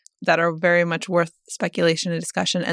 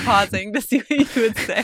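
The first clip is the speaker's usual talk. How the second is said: talking through laughter, higher pitched; laughing; 5 semitones higher than usual. Real, not acted. Admitting a pause to test the co-host, laughing. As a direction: let the laugh break into the words.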